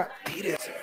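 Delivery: hushed whisper, no voice at all. Shown as a demonstration. Class answering the teacher in a whisper. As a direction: breathe it out as a whisper. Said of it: "फिर तेज बोल रहा है तुम लोग".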